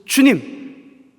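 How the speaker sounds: long, high, loud drawn-out call; primal cry. Acted. A humbled sinner crying to the Lord, primal drawn-out wail. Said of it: "더 원초적으로 부르짖습니다".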